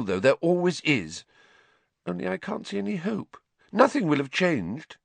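put-on a clever girl losing hope; tearful Hermione.

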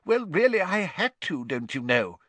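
a high, testy protest; irritable. A narrator's reading. Fudge answers his critics, irritable and high. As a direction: huff it out, defending yourself. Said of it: "said an irritable Fudge".

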